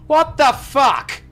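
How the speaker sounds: high, slow, incredulous exclamation; baffled outburst. Real, not acted. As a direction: draw it out high in disbelief. Baffled by the quiz question.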